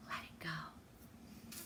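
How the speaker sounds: slow breathy mantra whisper; whispered let it go. Real, not acted. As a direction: breathe it out like a release. Calming mantra.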